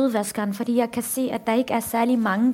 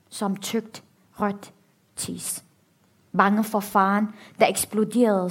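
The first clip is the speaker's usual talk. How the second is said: measured, grave book reading with long pauses; dramatic reading. A narrator's reading. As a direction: read the horror steadily, letting pauses land. Reads an excerpt from the novel.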